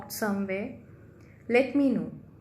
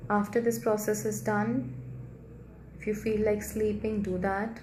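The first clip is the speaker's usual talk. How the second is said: calm guided healing visualization; guided meditation. Acted. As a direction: ease them into the healing light gently.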